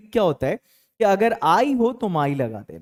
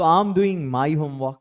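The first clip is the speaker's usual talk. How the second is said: very slow, each word laid out; slow model sentence; 3 semitones lower, much slower than usual. Shown as a demonstration. Teacher modelling the answer for his class, slow and clear. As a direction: model the sentence slowly for learners. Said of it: "अगर ऐसा हो कि मैं अपना homework कर रहा हूं".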